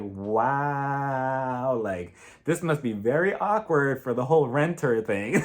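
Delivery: giggling through it; laughing mock wow. Vlogger reacting to Kyle and Sutton, laughing. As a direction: snicker at the awkward renter bit. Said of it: "And I was like".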